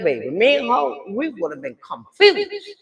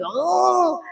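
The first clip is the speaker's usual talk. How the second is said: high mock straining hum; high-pitched strained "mm"; imitated straining grunt; 8 semitones higher than usual. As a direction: mimic someone bearing down. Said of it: "She busy going".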